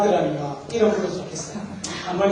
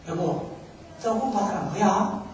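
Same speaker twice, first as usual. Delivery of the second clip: gentle asking; 7 dB quieter than usual. Retold or imitated. Wife asks her silent husband the riddle, gently. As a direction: imitate a wife asking quietly. Wife's first, patient asking.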